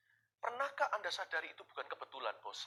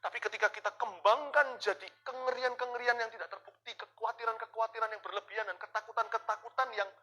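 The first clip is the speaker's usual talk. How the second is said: preaching hard; 7 semitones higher, 7 dB louder than usual. Real, not acted. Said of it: "sudah spirit menurut saya".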